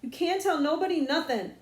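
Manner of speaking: loud, urgent warning to his sister; desperate threat. Acted. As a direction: make her believe it, desperate. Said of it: "He was desperate".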